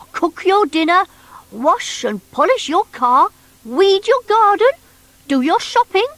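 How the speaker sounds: high, funny little creature voice; bunkie's voice. Acted. Bunkie telling Noddy about himself, high creature voice. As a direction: squeak it out like a hurt half-rabbit.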